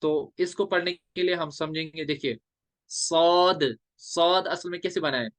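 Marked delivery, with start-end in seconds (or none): 2.9-3.8 SAAD "सौद" with a long-held vowel; elongated saad. Shown as a demonstration. Teacher showing students how to read the letter, drawn out. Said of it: "तो कितना खींच के पढ़ेंगे".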